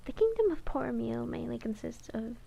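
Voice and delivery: measured audiobook-style reading; narrating a novel in first person; story narration. A narrator's reading. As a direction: read the fantasy tale aloud, evenly paced. Reads the novel aloud.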